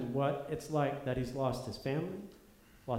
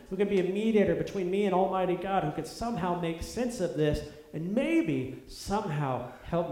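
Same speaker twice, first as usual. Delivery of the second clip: preaching with force; 4 semitones higher than usual. Acted.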